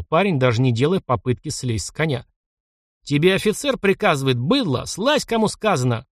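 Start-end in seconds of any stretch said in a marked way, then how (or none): 3.0-6.1 higher, shrill-edged officer's command; визгливый окрик. Acted. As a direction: yelp the order at a peasant. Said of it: "взвизгнул ротмистр". (выше, взвизгнув на парня)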